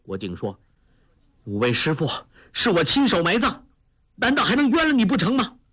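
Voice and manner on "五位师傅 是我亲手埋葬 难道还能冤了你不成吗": much higher, fast and indignant; young man indignantly defending his accusation; heated protest. Acted. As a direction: rush it out in outrage. Guo Jing accuses Huang Yaoshi.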